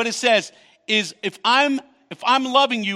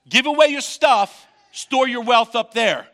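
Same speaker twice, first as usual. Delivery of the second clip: preaching shout; 3 semitones higher, 5 dB louder than usual. Real, not acted. Preacher's rising exhortation.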